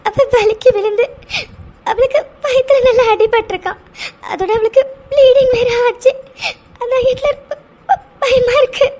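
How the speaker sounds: tearful pleading, voice catching; crying. Acted. Scared girl telling Hitler about the bleeding, crying. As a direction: sob it out while explaining the bleeding. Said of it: "அழாதடி".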